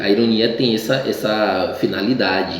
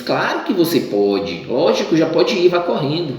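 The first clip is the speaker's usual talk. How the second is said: mother's sarcastic go ahead; ironic permission; 6 semitones higher than usual. Retold or imitated. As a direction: grant it so sweetly it means no.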